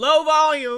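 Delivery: very loud, high, full-volume scream. Speaker on a show today suddenly bursts out: screamed. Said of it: "I don't know why I decided to scream that".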